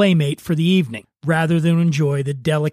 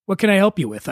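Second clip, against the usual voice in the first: customer service voice; 3 semitones higher, faster than usual. Retold or imitated. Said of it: "in my best customer service voice".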